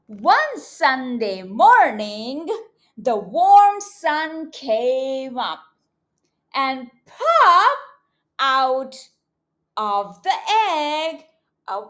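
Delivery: slow, expressive storybook reading; reading to children. A narrator's reading. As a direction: read it big and slow for little kids.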